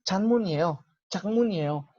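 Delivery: Chanmunieo with the n sliding into ie; linked pronunciation. Shown as a demonstration. Teacher models chanmunieo linked, fluid. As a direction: chanmunieo said as one flowing word. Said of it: "esa N como que se alarga hacia la I".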